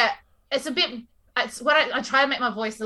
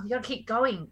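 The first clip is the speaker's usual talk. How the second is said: softer second stab at an Ocker accent; Ocker accent attempt; 5 dB quieter than usual. Shown as a demonstration. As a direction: try broad Aussie Ocker, a little unsure. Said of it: "I find Ocker really hard to do".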